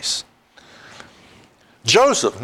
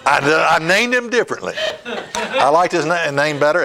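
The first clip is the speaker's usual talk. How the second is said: laughing; 3 semitones higher than usual. Real, not acted. Laughing at own name slip.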